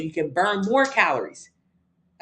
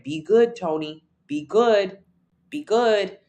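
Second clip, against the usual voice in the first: louder, firm repeated "Be good"; louder insistent self-command, imitating past self; self urging; 2 semitones higher, 3 dB louder, much slower than usual. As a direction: push yourself with each "Be good". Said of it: "So I started my day off saying".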